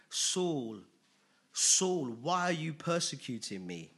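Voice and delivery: a touch of a calling divine voice; voice from heaven. Acted. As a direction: call his name from above, lightly voiced. Voice of Jesus from heaven.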